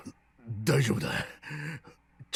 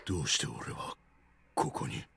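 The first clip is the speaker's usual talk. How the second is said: dazed murmur; 10 semitones lower, 8 dB quieter than usual. Acted. Dazed Seven speaks after seizure.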